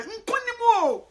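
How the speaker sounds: high, loud, slow proclamation; triumphant call; victory cry. Real, not acted. Declares victory, repeated.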